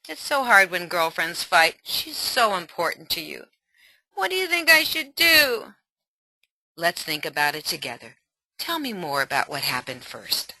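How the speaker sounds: ally mother listening to daughter; gentle mother. Acted. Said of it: "ally mother".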